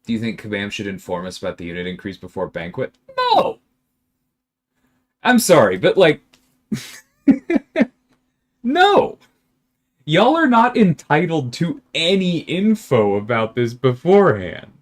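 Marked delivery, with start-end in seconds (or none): 3.2-9.2 incredulous high-pitched no, cracking up; loud, real laughter breaking through the refusal; laughing. Real, not acted. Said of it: "I know I'm laughing". 10.0-14.7 worked-up, louder and higher rebuke; spicy. Real, not acted. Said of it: "I'm in a spicy mood today".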